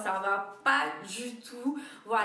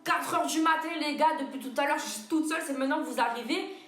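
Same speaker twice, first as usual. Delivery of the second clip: indignant; 3 semitones higher, 4 dB louder than usual. Retold or imitated. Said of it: "je me suis dit".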